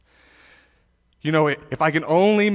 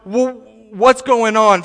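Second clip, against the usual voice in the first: louder, higher anxious crowd voice; worried people; 4 semitones higher, 5 dB louder than usual. Retold or imitated. Preacher voicing worried Israelites asking about the king, anxious. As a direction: act out a confused, worried crowd. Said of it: "Everyone was looking around saying".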